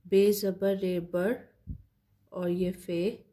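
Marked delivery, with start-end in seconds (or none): 0.1-1.3 slow spelling building to बर; spelling out letters. Shown as a demonstration. Teacher joins letters into बर for students, slowly. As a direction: spell each letter slowly, then join them into बर. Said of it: "मिला के पढ़ना है".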